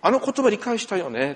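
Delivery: amused disbelief, laughing; mock puzzled laugh; laughing retold question. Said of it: "って".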